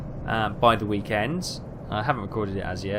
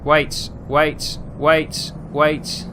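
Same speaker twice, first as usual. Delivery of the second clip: louder, quick urgent waits; 4 semitones higher, 6 dB louder, much slower than usual. Real, not acted. Driver stopping himself at a junction, urgent. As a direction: halt yourself in a hurry.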